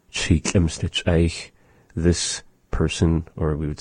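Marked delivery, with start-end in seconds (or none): 0.1-1.5 slow careful demo of "She schlimmste Eich"; language example. Shown as a demonstration. Teacher demonstrating "She schlimmste Eich" slowly for learners. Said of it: "would be this person".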